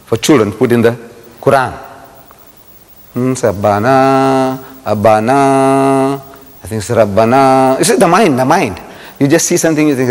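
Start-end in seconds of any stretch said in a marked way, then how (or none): 3.1-7.8 slow, drawn-out deciphering; puzzled reading. Retold or imitated. Speaker retells puzzling over gold calligraphy, hesitant drawn-out reading. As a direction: stretch the last vowel while working it out.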